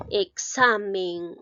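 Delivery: slow reading. Shown as a demonstration. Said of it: "¿Qué dice?".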